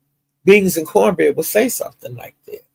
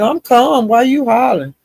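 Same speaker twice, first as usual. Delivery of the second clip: much higher, louder mock of the other woman; voice going up octaves; 9 semitones higher, 3 dB louder than usual. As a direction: squeak it up high like her voice climbing. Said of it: "her voice goes up in octaves".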